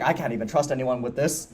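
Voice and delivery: imitating a burdened Turaga keeping a secret, voiced low; hushed worried aside. Motoro confessing he can't trust anyone, in a quiet imitating voice. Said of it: "'cause he's like".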